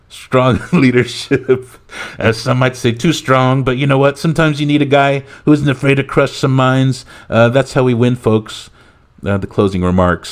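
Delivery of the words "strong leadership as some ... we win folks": higher-pitched parody of approving bluster; mock presidential praise; Donald Trump. President endorsing the leprechaun's threat, boastful parody. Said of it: "Trump nodding".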